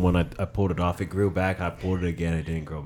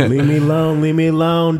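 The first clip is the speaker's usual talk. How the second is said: mocking whine; 9 semitones higher, 5 dB louder than usual. Mocking friend's refusal.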